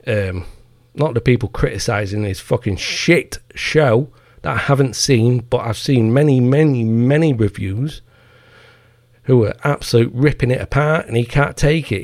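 ordinary talk

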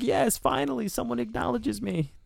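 high, thin mock old man voice; lonely old cheesesteak man. Old Maine cook thrilled to be noticed, in a high mock voice. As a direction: squeak it out like a forgotten old cook finally noticed. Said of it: "He's just like".

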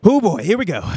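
mock weary sigh, pitch swooping up high and down; an exaggerated, reluctant sigh of a line; resigned sigh. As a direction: sigh it out loudly, bracing for the task. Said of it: "kind of sighs and goes".

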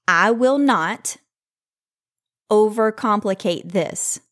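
slow, deliberate affirmation; slow mantra to repeat. Shown as a demonstration. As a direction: spell it out slowly for listeners to repeat. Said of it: "I want you to repeat after me".

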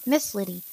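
"Liddy" with a d in the middle; wrong name, Liddy. A narrator's reading. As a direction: say "Liddy", d sound for the second l. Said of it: "It's Lily, not Liddy".

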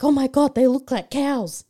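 high, loud retold disbelief; shocked reaction. Podcaster retelling seeing the donors hooked up, shocked. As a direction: exclaim it, aghast, pitch jumping up.

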